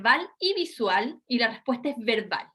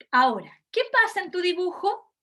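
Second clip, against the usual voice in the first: examiner prompt; 5 semitones higher than usual. Shown as a demonstration. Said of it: "Yo comienzo entonces diciéndole".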